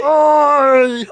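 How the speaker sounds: high shouted Cockney oi; British accent. Pretend. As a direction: bark a loud British oi. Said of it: "to say British".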